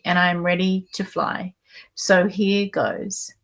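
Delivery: measured reading of a book passage; reading aloud. Acted. Host reading a guest's chapter to listeners, measured reading.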